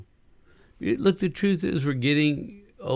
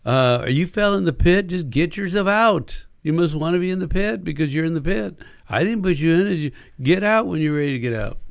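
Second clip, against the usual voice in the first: dismissive lecturing; 4 semitones higher than usual. Retold or imitated. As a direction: impatiently push them to cheer up.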